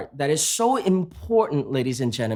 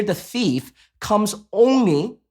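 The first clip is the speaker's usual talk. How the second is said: "only" drawn out slowly with a rise at the end; stress on only; slower than usual. Shown as a demonstration. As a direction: lean on "only", slow and rising. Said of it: "now emphasis on the word only here".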